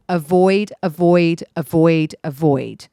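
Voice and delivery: each avoid punched loud and firm; insistent repeated warning; emphatic avoid. Real, not acted. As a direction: hammer the word avoid home. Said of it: "repeated emphatic avoid".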